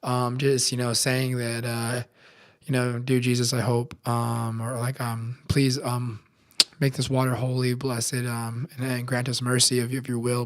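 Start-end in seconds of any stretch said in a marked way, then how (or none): 3.0-10.4 softer, halting improvised prayer; retold hesitant prayer. Novice blesses bowl of water, praying softly and haltingly. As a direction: pray quietly, groping for the words. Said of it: "I try to do a prayer over the water".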